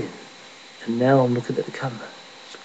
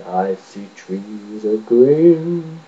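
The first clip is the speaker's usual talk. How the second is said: a singer; 3 dB louder, much slower than usual. Retold or imitated. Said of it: "As in".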